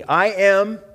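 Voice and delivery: loud, slow declaration for the church to repeat; leading the congregation, loud and deliberate; call and response declaration. Shown as a demonstration. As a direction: proclaim it so the church can echo it. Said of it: "repeat out loud after me".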